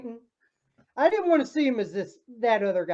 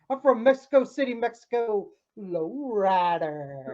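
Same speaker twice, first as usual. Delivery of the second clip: imitating the wrestler's intro; 4 semitones lower, 4 dB quieter than usual. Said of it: "He, he said".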